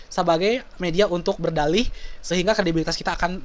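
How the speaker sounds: usual speaking voice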